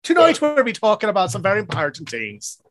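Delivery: shaky attempt at Irish, sounding rather British; mock-Irish show intro; attempted Irish accent. Host introduces tonight's topic in attempted Irish accent. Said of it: "thought you were going for Irish".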